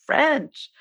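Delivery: pitched well up, an apologetic parent pleading; flustered parent. Retold or imitated. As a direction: protest helplessly to a demanding child, voice up high. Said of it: "And you say".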